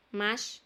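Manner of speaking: "Much" with an "ah" vowel. Shown as a demonstration. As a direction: model "Much" as "mach". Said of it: "este U se lee como A". ("Much" pronunciando la U como A)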